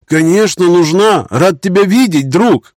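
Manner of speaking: high, loud happy shout; joyful yell. Acted. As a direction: cry out in relief and delight. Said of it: "радостно завопил барон".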